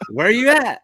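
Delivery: high, loud searching holler; imitating a yell through the fog; retold shout. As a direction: call out to someone you cannot see. Retold shout to unseen boater.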